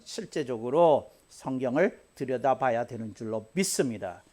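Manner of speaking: usual speaking voice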